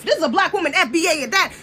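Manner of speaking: usual speaking voice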